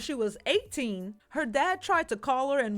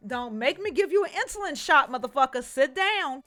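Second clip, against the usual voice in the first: stern scolding mom; 5 dB louder than usual. Retold or imitated. Voicing Dee Dee scolding.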